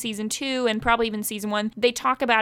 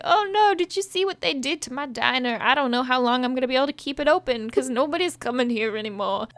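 Pops impression. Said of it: "Your impressions".

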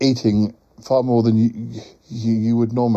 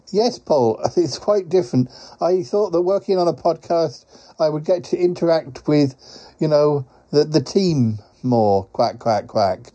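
lightly voiced, quack-punctuated grumble; wistful quacking creature; 4 semitones higher than usual. Quacking courier wishes for more time with the team, wistful creature voice. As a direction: play a slightly let-down quacking creature.

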